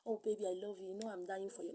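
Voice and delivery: mock sweet talk. Mocking a lover's sweet talk.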